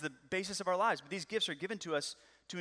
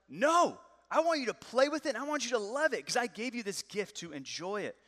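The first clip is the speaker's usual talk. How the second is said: insistent dad; 5 semitones higher than usual. Retold or imitated. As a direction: urge your son, no, play with it. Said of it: "I would be like".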